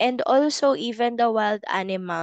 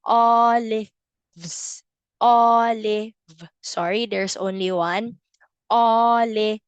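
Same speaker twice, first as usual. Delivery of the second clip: emphatic modeled word. Shown as a demonstration. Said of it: "It's at the end".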